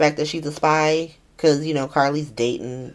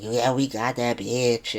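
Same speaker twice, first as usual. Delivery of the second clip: low, slow mock boast; retold gloating, taken low and slow; imitated bragging; 5 semitones lower, 4 dB quieter, slower than usual. Schemers boasting about her beforehand, mock bragging. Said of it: "bragging beforehand".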